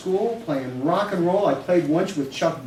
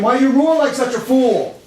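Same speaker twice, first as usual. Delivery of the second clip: much higher, louder taunting tiger; poem tiger taunting the lion; mocking tiger; 9 semitones higher, 8 dB louder than usual. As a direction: sneer at the lion like a cocky cat. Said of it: "Said the tiger".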